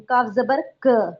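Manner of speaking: slow, spelled-out letter drill; slow teaching drill. Shown as a demonstration. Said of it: "पहले जबर लगाती हूँ".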